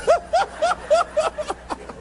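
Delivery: quick high laugh; real laugh. Real, not acted.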